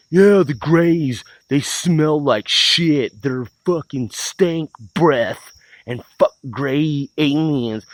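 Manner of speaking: slow, dumb-sounding Phil impression; slow mock Phil. Mocking Phil's complaints about the Greys, slow. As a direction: drag it out like a dim redneck. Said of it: "And then he's like".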